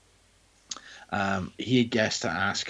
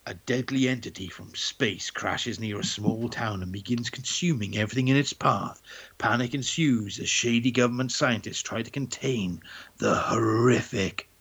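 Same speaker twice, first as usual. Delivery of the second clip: slow, dramatic movie trailer narration; horror trailer voice. Acted. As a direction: announce it like a horror film trailer. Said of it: "You could do trailers".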